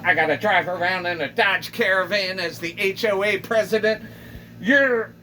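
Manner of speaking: rant, rising to a yell; furious neighbor. Acted. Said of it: "And she's like".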